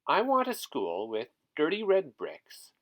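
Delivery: put-on girl describing her school. Girl answers shopkeeper.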